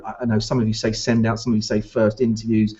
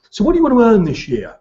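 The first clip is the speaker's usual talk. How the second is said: fast, higher, louder pushy boss voice; keyed-up boss; 8 semitones higher, 4 dB louder, faster than usual. Retold or imitated. Owner pressing the rookie on earnings, fast and pushy. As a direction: mimic an overeager owner grilling a rookie. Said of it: "they all talk like that".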